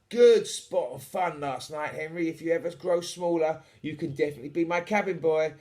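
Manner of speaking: hearty, lively captain's farewell; jovial pirate captain. Acted. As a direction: thank the boy like a jolly skipper. Voices Captain Eight Piece.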